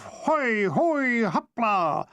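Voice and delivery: high, ringing cry as he leaps; triumphant shout. Acted. Athlete shouting as he hurls himself upward. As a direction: belt it out at the bar. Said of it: "with a triumphant shout of".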